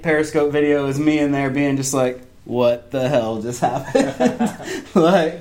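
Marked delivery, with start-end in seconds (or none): 2.4-4.8 slow, stunned disbelief with a laugh; retold blown away. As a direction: stretch it out as if dazed. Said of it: "just blown away".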